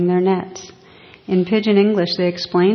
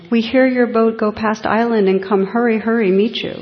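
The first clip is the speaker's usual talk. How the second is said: louder, higher, eager pidgin call; 4 semitones higher, 4 dB louder than usual. Retold or imitated. Fishermen calling out eagerly to the bishop, louder and higher. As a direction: hurry the words out as if running over water.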